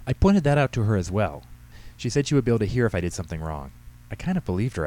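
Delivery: a hint of a girl making excuses to Dad; lightly voiced teenage daughter.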